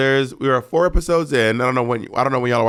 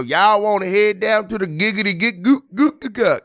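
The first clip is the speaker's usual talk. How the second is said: mock Atlanta hick accent; 8 semitones higher than usual. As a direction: parody an Atlanta twang till it turns nonsense. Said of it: "People in Atlanta do not go".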